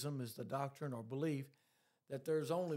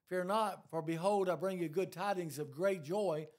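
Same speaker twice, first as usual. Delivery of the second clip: "Fear not" thrown out louder, building; louder proclamation; 3 semitones higher, 5 dB louder than usual. Acted. Same verse repeated, climbing.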